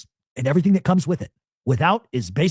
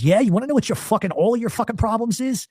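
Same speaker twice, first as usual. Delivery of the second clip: retold public outburst; 8 semitones higher than usual. Father takes on the Philly crowd, retold indignant outburst. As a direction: act out dad making a scene, pitch jumping up. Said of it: "to make a scene".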